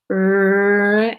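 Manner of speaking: slow stretchy teacher demo; stretched slowly. Shown as a demonstration. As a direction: draw the word out long and slow. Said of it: "the stretchy way".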